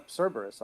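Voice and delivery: Cerberus with an S at the start; Latin pronunciation. Shown as a demonstration. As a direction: say Cerberus as "SER-ber-us". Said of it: "And the Latin is".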